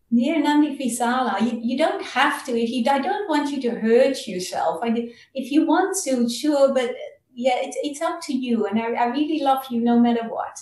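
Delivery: kind coaxing. Acted. Brahmin sweetly asking his bull to pull the carts, kind coaxing. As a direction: coax your friend sweetly. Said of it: "saying kind words to him".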